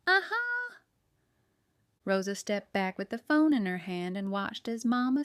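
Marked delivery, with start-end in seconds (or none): 0.1-0.5 high, loud cry of discovery; yelled out. A narrator's reading. Baker spotting a fly on the window, yelling. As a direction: pounce on it with a triumphant yell. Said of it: "and yelled out".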